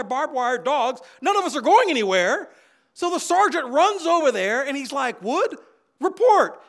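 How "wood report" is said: loud, high barked order; sergeant's command. Retold or imitated. Drill sergeant barking at the cadet line: loud command.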